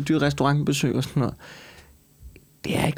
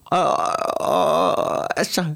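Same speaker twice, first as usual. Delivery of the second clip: raised, higher protesting voice; indignant; 6 semitones higher than usual. Real, not acted. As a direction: push back hard, clearly offended. Defends himself, rising indignation.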